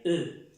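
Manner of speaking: French E sound. Shown as a demonstration. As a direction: say the French E, lips rounded. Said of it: "la pronunciación de la E".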